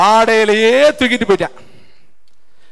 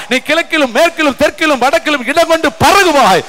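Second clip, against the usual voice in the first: proclaiming God; 3 semitones higher than usual. Acted. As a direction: announce the promise with full force. Preacher voices God's promise.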